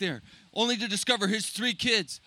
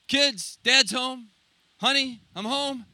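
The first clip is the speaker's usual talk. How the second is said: calling out; 4 semitones higher, 3 dB louder, slower than usual. Acted. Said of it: "So he calls out".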